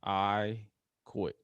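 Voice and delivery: soft, beaten "I quit"; quiet defeated quit. Retold or imitated. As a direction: barely get the words out. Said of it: "Jay had to utter".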